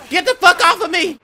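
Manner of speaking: panicked yell. Real, not acted. Grabbed by monster.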